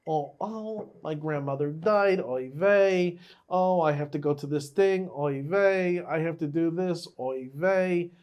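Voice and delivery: put-on whiny, kvetching Yiddish accent. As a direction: kvetch it like an old Jewish man.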